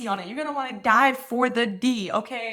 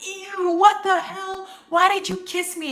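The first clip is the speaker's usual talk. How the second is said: put-on high, whiny, babyish big-baby freak-out. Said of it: "He's like a big baby".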